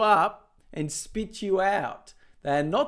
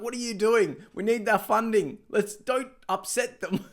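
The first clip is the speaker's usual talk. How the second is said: a bit higher, fretful mock supporters; light mock crowd voice; 4 semitones higher than usual. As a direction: fret like a worried supporter. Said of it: "So they're all like".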